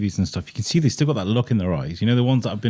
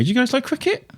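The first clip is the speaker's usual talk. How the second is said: promo. Acted. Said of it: "I'm gonna do a promo now".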